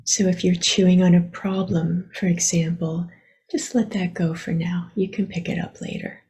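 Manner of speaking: unhurried meditation guidance with long pauses; guided meditation. Acted. Teacher guiding listeners to relax their attention, unhurried meditation voice. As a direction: gently lead them inward, leaving long silences.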